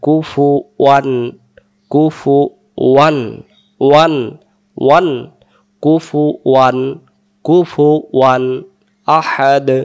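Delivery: ওয়ান clearly voiced in কুফুয়ান; correct pronunciation. Shown as a demonstration. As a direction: stress the ওয়ান syllable of কুফুয়ান. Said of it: "বাদ দেব না".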